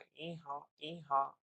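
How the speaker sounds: light donkey hee-haw imitation; understated mock bray. Shown as a demonstration. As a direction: mimic a donkey starting to bray. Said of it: "ಆ ತರ ಕೂಗೋದಕ್ಕೆ start ಮಾಡುತ್ತೆ".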